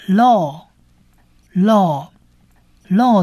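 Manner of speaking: "law" drawn out with a long O; 长母音 O. Shown as a demonstration. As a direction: say "law" slowly, holding the O. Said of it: "我们把它叫做长母音的O的音". (慢慢念 "law"，拉长 O 音)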